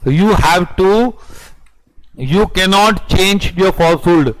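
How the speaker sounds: very slow, each word laid out; slow dictation. Acted. Teacher dictating the rule on falsehood, very slow. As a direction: dictate it for the notebook.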